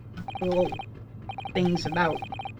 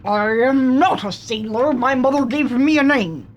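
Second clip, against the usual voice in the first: put-on weak Russian accent; 3 dB louder than usual. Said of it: "I can't do a Russian accent".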